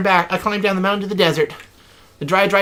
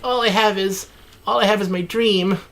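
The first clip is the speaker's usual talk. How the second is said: croaking; 3 semitones higher than usual. Acted. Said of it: "I croaked".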